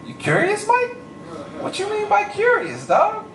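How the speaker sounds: very high, teasing squeal of a question; mock suspicion. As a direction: squeak it out in exaggerated disbelief. Mock suspicious reply to Mike.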